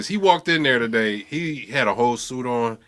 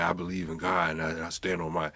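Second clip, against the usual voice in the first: imitating a devout player's vow; mock confident player; 7 semitones lower than usual. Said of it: "he said".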